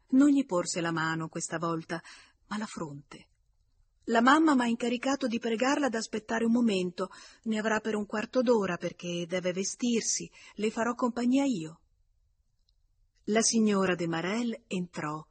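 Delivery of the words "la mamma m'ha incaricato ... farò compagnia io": lightly voiced child, higher and a bit louder; a hint of a polite little hostess; little girl speaking. A narrator's reading. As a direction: recite mother's message in a lifted child's pitch. Little girl addresses the guest.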